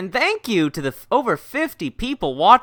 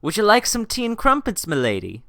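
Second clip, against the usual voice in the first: mock British; 6 semitones higher than usual. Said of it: "seductive British voice".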